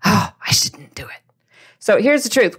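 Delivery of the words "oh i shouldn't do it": hushed inner doubt; small whispered voice of fear. Retold or imitated. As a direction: whisper it like a nervous thought. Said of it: "make you feel like".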